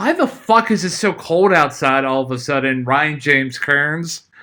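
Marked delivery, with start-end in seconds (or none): none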